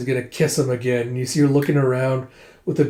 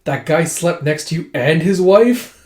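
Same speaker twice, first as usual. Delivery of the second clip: mildly hammed-up shock; indignant disbelief; 3 semitones higher, 5 dB louder than usual. Acted outrage at revelation.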